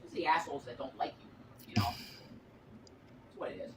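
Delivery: hushed whisper; breathy hush, barely voiced. Real, not acted. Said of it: "hi, Granny Whisperer".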